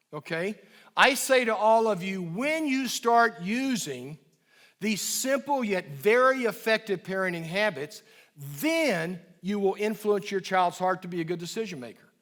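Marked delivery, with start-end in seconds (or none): 2.2-12.1 confident when-phrasing. Shown as a demonstration. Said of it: "I believe in you".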